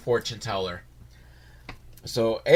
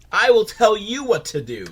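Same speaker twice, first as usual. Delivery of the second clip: higher, firm mock command with the stress on will; 8 semitones higher, 4 dB louder than usual. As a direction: boss the book around, playfully.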